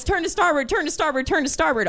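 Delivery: crew passing the order back, dying away; relayed calls, fading. Retold or imitated. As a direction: chain of calls fading toward the helm.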